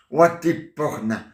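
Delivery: slow drawn-out Watiporna; word said backwards. Shown as a demonstration. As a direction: say Watiporna slowly, syllable by syllable. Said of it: "je dis n'importe quoi à l'envers".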